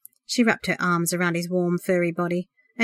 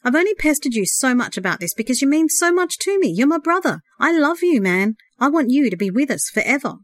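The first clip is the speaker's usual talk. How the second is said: higher, loud urgent plea; loud imploring; 6 semitones higher, 3 dB louder than usual. A narrator's reading. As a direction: implore him with feeling. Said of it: "the earnest voice implored loudly".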